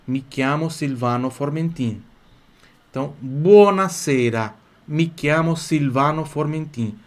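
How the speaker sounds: slow, deliberate Italian self-introduction; slow demonstration. Shown as a demonstration. Teacher modelling an introduction for students, slow demonstration. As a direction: model "Mi chiamo Silvano Formentin" with drawn-out stressed vowels. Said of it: "Como é que eu falo meu nome?".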